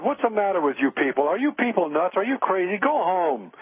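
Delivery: mock-exasperated razzing, pitch lifting on the questions; retold incredulous ribbing. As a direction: imitate a friend needling a group. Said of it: "he used to razz me".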